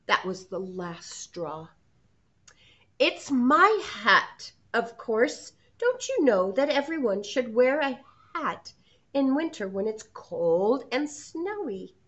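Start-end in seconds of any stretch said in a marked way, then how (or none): 3.0-12.0 loud fed-up shout. Acted. Hedgie, fed up, shouts at the pony. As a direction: snap back, last straw. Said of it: "Hedgie shouted".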